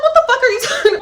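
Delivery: high, loud, cracking up mid-question; stunned friend laughing mid-question; laughing disbelief. Retold or imitated. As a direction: ask it while bursting into laughter.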